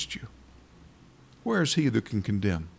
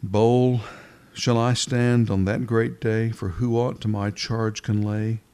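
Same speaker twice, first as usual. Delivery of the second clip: hymn reading. Acted. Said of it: "Let me just read you a bit".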